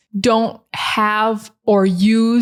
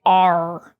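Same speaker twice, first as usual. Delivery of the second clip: British non-rhotic R; 3 semitones lower than usual. Shown as a demonstration. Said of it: "They don't say".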